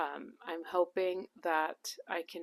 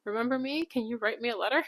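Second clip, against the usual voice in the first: awkward cold email; 6 semitones higher, 6 dB louder than usual. Pretend. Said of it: "and just be like".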